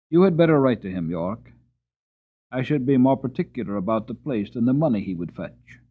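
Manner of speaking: lightly voiced irritated old earl; annoyed Earl. Earl gives York an order.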